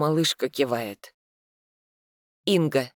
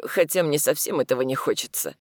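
ordinary delivery

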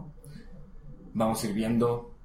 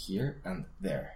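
word by word; 5 semitones lower, 6 dB quieter, slower than usual. Shown as a demonstration. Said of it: "diciendo claramente cada palabra".

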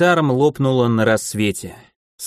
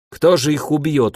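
startled question, pitched up; surprised; 5 semitones higher than usual. Acted. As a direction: ask it in open surprise. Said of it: "удивилась Дандаки".

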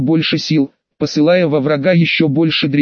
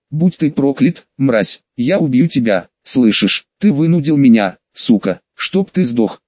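hateful cursing. Acted. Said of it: "вырвалось несколько ругательств".

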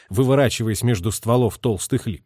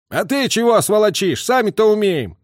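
sullen retort; 9 semitones higher, 4 dB louder than usual. A narrator's reading. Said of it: "угрюмо отозвался".

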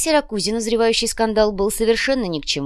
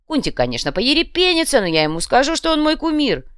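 loud, swaggering gangster boss; a loud, cocky thug laying out his scheme; boastful red cap thug; 2 semitones higher, 6 dB louder than usual. Acted. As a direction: brag loudly about the grand plan. Red cap boss voiced in story.

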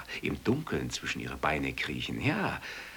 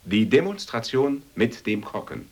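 loud, high showman fanfare; showman announcement; 7 semitones higher, 7 dB louder than usual. Acted. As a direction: announce it like a circus ringmaster.

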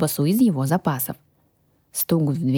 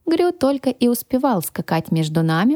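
usual speaking voice

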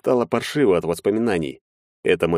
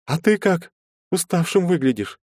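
lightly voiced young woman; 11 semitones higher than usual. A narrator's reading. Anfisa apologizing to Maxim, higher girlish voice. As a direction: play the shy girl saying sorry.

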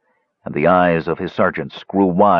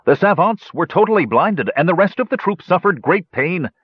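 higher, a hurt soldier's report; 10 semitones higher than usual. A narrator's reading. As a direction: tell the bad news nervously.

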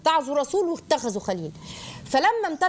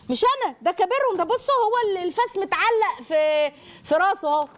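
playful Ibrahim; 8 semitones higher than usual. Acted. Ibrahim teasingly blames the big idol.

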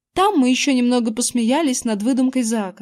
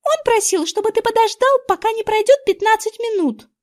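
put-on much higher girl's voice, insistent; girl reminding; 11 semitones higher than usual. A narrator's reading. Girl reminding the boy to wait, high insistent girl's voice. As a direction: remind him of the promise. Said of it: "напомнила мне Эрин".

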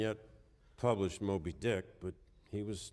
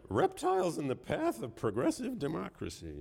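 higher, incredulous retelling, still amused; mock incredulous quote; 7 semitones higher than usual. Shown as a demonstration. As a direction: repeat it like you can't believe it was printed. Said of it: "I'm sorry".

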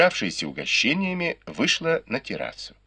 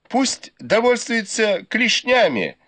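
laughing reply; 14 semitones higher, 3 dB louder than usual. Acted. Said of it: "со смехом отвечали".

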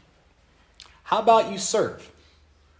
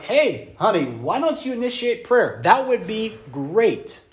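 sweet to wife; 3 semitones higher, slower than usual. Retold or imitated. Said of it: "It's like".

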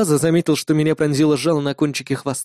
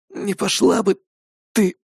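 hoarse croak; 4 semitones higher than usual. A narrator's reading. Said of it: "прохрипел я".

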